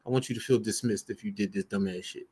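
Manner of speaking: coldly dismissive, dropping low and soft; dry disdain. Real, not acted. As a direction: brush them off, unimpressed. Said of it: "if I sound dismissive, it's because I want to".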